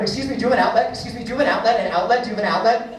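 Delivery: rapid pestering plea, mildly frantic; hammed-up addict begging café staff; crack-fiend desperation. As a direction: keep asking like a jittery addict. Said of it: "they look like a crack fiend".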